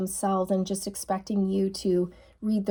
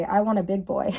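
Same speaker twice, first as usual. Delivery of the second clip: joking. Retold or imitated. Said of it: "kinda joke and say".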